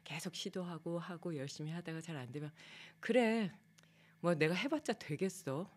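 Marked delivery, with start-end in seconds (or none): 3.0-5.7 retold self-frustration. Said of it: "내가 나한테 막 화를 내고".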